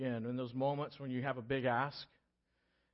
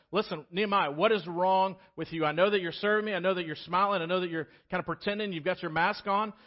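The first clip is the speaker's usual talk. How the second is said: king's questioning; 3 semitones higher, 5 dB louder than usual. Retold or imitated. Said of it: "he's like".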